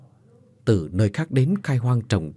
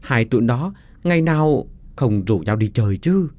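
giọng ông hàng xóm hơi cao, thắc mắc; a lightly voiced curious old neighbour; 3 semitones higher than usual. Ông Tứ kể chuyện con. (giọng ông Tứ hơi cao, thắc mắc)

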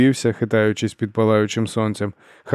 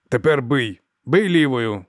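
drill command; 3 semitones higher, slower than usual. A narrator's reading.

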